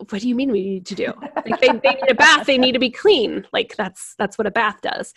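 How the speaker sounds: acted parent's mild exasperation, peaking mid-way; mildly annoyed. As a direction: explain the obvious with a touch of irritation. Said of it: "the intuitive parent will get annoyed".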